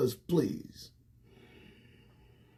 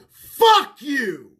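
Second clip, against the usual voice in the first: mock shout; 7 semitones higher, 8 dB louder than usual. Punchline of rant, their response.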